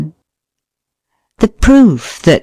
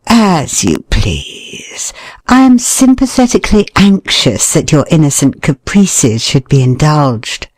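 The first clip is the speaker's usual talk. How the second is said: indulgent murmur. Shown as a demonstration. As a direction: humour her gently. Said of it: "depend on your tone whether you convey".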